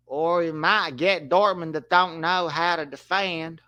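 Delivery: a hint of a simple, earnest Southern storyteller; Forrest Gump. Commentator doing Forrest Gump on request, lightly voiced. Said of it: "Can you commentate as Forrest Gump?".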